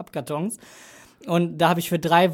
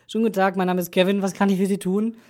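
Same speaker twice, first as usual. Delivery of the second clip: quick polite phone greeting; customer service voice; 2 semitones higher than usual. Retold or imitated. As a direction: answer like a friendly call centre agent. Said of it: "musste ich rangehen mit".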